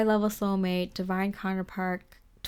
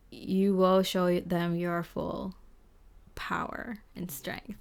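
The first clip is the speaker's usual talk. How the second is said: slow, whispered power and strength; hushed whisper; slower than usual. Real, not acted. Tarot reader whispering to the client about their power.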